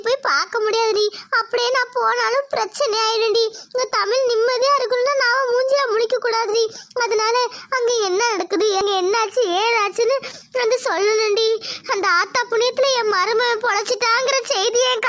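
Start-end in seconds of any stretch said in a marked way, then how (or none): 3.7-10.2 tearful plea. Acted. Mother pleads through tears. 10.6-11.5 tearful plea. Acted. Mother pleads through tears.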